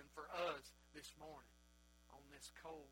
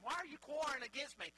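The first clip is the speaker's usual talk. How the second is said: raised, louder preacher's voice for God; God challenging; 8 semitones higher, 8 dB louder than usual. Acted. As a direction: confront them as an acted God. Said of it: "This is God talking to him".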